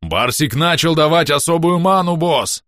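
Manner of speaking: loud, high excited report; shouting. A narrator's reading. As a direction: shout the great news to the boss. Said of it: "закричал Бом". (радостный крик)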